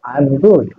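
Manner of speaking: "I am" run together as "I'm"; spoken contraction. Shown as a demonstration. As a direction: contract "I am" into one syllable, "I'm good". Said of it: "I apostrophe am".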